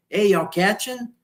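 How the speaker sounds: high, called-out greeting; fisherman calling out. Retold or imitated. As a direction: call out to passing boats. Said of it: "he just went".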